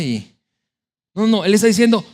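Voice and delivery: ordinary talk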